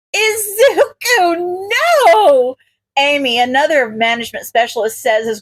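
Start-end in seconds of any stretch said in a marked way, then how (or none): 0.1-2.6 high, drawn-out then loud cry; calling out. A narrator's reading. Amy calling to stop Izuku's punches, loudly. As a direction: call out to stop him.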